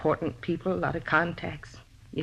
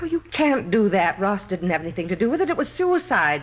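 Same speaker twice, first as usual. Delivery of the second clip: desperate pleading; 4 dB louder than usual. Acted. Woman pleads with arresting detectives.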